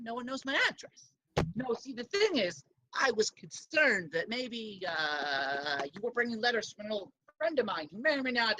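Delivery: lightly voiced, hesitant Cajun accent. Bone Man asks to borrow incriminating letters, light Cajun accent. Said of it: "I was gonna do a Cajun accent for him".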